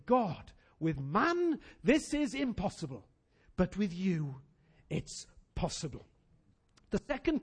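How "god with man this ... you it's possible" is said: the church declaring faith together; declared prayer. Acted. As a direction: proclaim it to God slowly. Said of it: "And we're gonna say".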